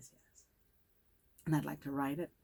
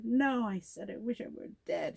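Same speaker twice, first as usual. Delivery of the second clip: higher, protesting correction; acted emphatic correction; 6 semitones higher than usual. Girl in the closet correcting her accuser, emphatic protest. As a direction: pitch it up, insisting you were misheard.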